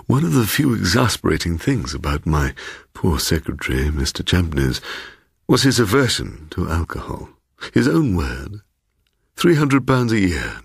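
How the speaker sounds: lightly voiced, insinuating old host; a hint of a smooth, teasing host welcoming a guest; sly host Bloom. Host Bloom teasing his surprised guest, lightly voiced insinuating tone.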